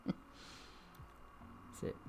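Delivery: whispered, giggling aside; laughing whisper. Real, not acted. Reader laughing at failing German. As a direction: laugh it off under the breath. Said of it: "I can't do German".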